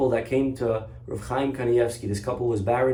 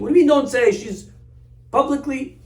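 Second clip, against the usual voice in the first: high, louder indignant outburst; mother of the bride cries out in high outrage; outraged protest; 11 semitones higher, 6 dB louder than usual. Retold or imitated. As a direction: protest loudly that she is being shamed. Mother outraged at being silenced.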